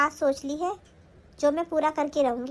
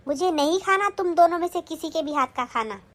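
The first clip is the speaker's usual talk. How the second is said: angry scolding. Acted. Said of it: "क्यों चिल्ला रही हो माँ जी".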